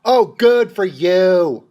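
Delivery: slow, drawn-out mock congratulations; dripping sarcasm; sarcastic praise. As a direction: draw out every word in fake admiration.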